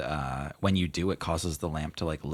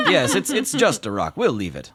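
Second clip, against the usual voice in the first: genie voice; 8 semitones higher, 9 dB louder than usual. Acted. Genie laughing.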